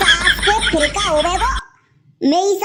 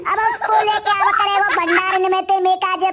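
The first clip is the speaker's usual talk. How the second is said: mock wail. Final wail for Baba.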